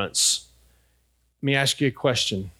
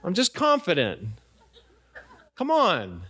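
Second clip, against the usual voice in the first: laughing denial; 4 semitones higher than usual. Retold or imitated. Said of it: "And I would say".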